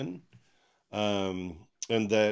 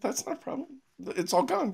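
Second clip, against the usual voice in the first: laughing. Real, not acted. Laughing retelling.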